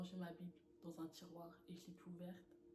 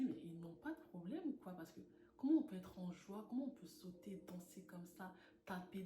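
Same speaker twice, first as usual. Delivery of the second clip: incredulous; 5 dB louder than usual. Retold or imitated. Pensée étonnée rejouée à l'église.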